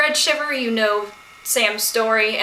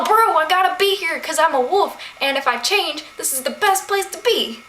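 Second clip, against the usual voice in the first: Tracy Jordan impression; 5 semitones higher than usual. Retelling the chapter, Cole voiced as Tracy Jordan, a lightly hammed bro. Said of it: "if he was Tracy Jordan".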